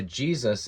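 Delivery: "Jesus" as hyeh-SOOS; "Jesus" with a guttural h and long oo; Greek pronunciation. Shown as a demonstration. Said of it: "the Greek-speaking people were referring to Jesus as".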